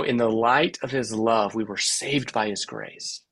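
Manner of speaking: "in the LIGHT of his LOVE", slowing and softening to GRACE; three-beat rhythm. Shown as a demonstration. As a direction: land gently on LIGHT, LOVE, SAVED, GRACE. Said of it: "talking about rhythm more than rhyme".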